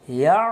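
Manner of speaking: "ইয়া" closed with a squeezed Arabic ain in the mid-throat; short "ইয়া" cut into a throaty ain. Shown as a demonstration. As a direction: end "ইয়া" by pressing the throat, "ya'". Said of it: "গলায়। আইন অকর হলকের মধ্য থেকে একটু চেপে".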